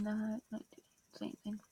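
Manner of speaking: soft whispered complaint; frustrated whisper. Real, not acted. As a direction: grumble quietly to yourself.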